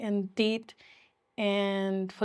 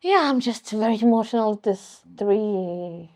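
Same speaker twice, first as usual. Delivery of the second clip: tearful; 5 dB louder than usual. Real, not acted. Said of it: "I don't know why I'm crying".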